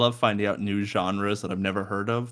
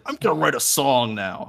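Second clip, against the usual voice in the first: higher pretend burst of songwriting confidence; mock confident declaration; 4 semitones higher, 4 dB louder than usual. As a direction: announce it like instant inspiration struck. Imagines having a talent for songwriting.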